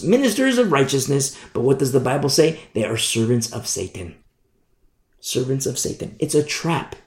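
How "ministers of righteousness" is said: "Ministers of righteousness" lifted in pitch, as if quoted; air quotes. Acted. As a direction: put audible quote marks round "Ministers of righteousness". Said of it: "emphasis on air quotes".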